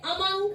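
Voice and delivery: 'among' with a light 'uh' opening; schwa pronunciation. Shown as a demonstration. Teacher repeats it aloud for students, careful 'among'. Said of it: "मैं बोल रही हूँ इसीलिए".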